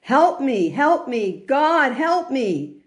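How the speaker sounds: man dangling from a branch begs God for help; mock screaming for help. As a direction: cry up to God from the cliff, the last plea slow. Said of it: "He starts screaming up to Hashem".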